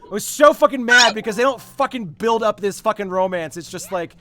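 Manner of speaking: high, loud ranting fury; real heated rant about a film romance; nerd rage. Real, not acted. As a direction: rant it like a furious fan. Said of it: "like, an actual, like, nerd rage".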